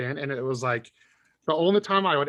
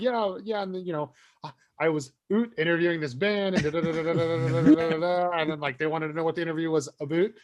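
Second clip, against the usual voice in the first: mostly plain chatter with Canadian "oot"; Canadian accent. Acted. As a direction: lightly imitate a Canadian guest. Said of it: "he literally sounds like he's from".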